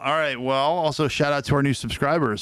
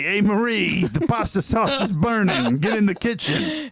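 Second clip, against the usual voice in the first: higher, slower call across the house, Marie said like mə˞i; 5 semitones higher than usual. Acted. Calling a wife to the kitchen, mock holler. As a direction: yell to Marie that the sauce burns. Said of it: "I say".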